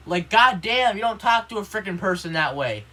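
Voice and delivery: loud, high, exasperated protest; indignant outburst. Real, not acted. Student protesting how the gym teacher talked to him, indignant outburst. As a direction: push back hard against being yelled at.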